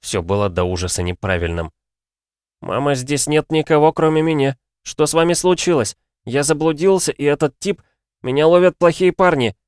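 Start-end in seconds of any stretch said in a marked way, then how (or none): 2.6-9.5 put-on high, distressed boy; sobbing plea. A narrator's reading. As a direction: plead tearfully with mother for help. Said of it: "а рыдал". (отчаянная мольба сквозь слёзы)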